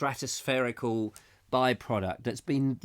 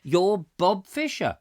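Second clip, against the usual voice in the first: phone voice; 8 semitones higher, 5 dB louder than usual. Pretend. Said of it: "it would go".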